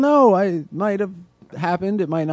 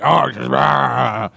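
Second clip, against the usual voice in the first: mock cheer; 4 dB louder, much slower than usual.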